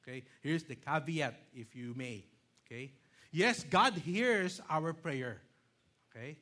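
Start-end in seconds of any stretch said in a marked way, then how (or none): 3.3-5.4 slow, weighty stress on God; each word set down slowly, God hit hardest; slow emphatic. Shown as a demonstration. Pastor to congregation, slow stressed "Yes, God hears". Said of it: "you might quote me with this".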